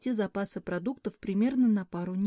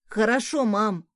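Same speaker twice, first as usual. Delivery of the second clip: louder, bright "Хорошо" rising at the end; eager exclamation; 5 dB louder than usual. Acted. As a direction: call back cheerfully while running off. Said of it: "воскликнул сын".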